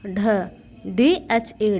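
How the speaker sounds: ढ then डी एच ए, slowly spelled out; teacher spelling slowly for children; slow spelling demo. Shown as a demonstration. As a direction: sound ढ, then spell each letter slowly. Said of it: "ड क्या होगा?".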